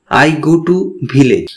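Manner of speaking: slow model sentence. Shown as a demonstration. Teacher models the English sentence slowly. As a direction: say it clearly for students to repeat. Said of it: "আমি গ্রামে যাই".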